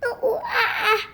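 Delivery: laughing monkey ooh ooh ah ah; monkey noises. Pretend. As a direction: play a giggly little monkey. Kid makes monkey sound.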